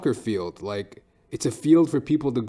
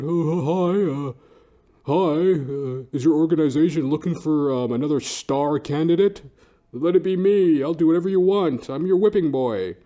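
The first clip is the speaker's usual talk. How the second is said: higher, louder eager fake-nice voice; groveling applicant; 4 semitones higher, 5 dB louder than usual. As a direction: oversell yourself like a desperate job seeker. Mock groveling job applicant.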